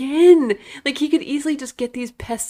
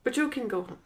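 Van Damme; 2 semitones higher, 8 dB quieter, faster than usual. Retold or imitated. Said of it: "when he keeps saying".

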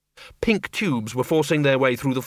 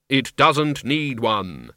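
grim reaper voice; much slower than usual. Acted. Death answers.

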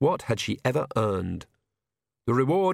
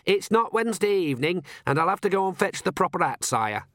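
higher-voiced dutiful servant; dutiful historian; 7 semitones higher than usual. Royal historian excusing himself to the king, higher and dutiful. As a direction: pitch it up, a servant making excuses.

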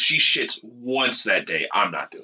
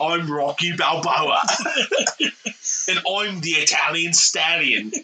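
put-on British accent. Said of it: "And I sound British".

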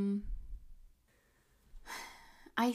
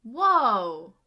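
big drawn-out loud gasp of wonder; real astonishment at a twist; amazed; 9 dB louder than usual. Real, not acted. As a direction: let the word swell in disbelief. Reacting to the plot twist.

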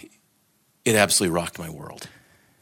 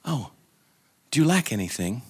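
gentle, mildly tender question; sweetly questioning; 2 semitones higher, 3 dB quieter than usual. Acted. Quick-eyed love to the soul drawing back, sweetly questioning. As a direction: ask it kindly, with a soft lift at the end. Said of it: "But instead, sweetly questioning".

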